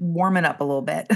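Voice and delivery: laughing through her own quote. Retold or imitated. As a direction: giggle out a mild suggestion. Quoting herself, laughing.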